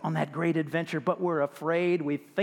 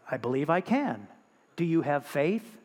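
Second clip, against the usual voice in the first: a lightly lowered, calm voice from above; calm deep voice; 4 semitones lower than usual. Acted. Voice from the sky answering the hanging man, calm and a touch lower. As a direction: answer steady and unhurried, a hint of God. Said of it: "this calm, deep voice".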